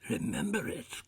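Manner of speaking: high, loud, eager outburst; fervent cry. A narrator's reading. Scrooge answering the spirit's question, fervent cry. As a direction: cry it out with fervor. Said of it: "cried Scrooge with fervor".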